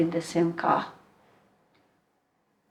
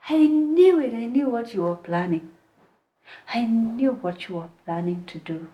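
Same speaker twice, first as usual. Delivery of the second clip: high outburst easing into usual pitch; retold angry yelling; 5 semitones higher than usual. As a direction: imitate an accuser's mild mock yell. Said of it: "she started yelling at me".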